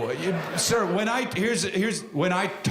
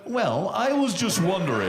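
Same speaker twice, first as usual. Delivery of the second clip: mock-meek polite request. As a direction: imitate a suddenly courteous heckler. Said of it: "why did he get so goddamn polite".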